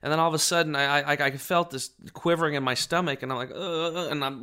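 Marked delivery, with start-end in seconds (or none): 3.5-4.1 high wordless "ugh"; mock welling-up groan, high; imitated shuddering groan. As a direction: mimic a quivering pre-sob groan. Imitates quivering stomach before crying.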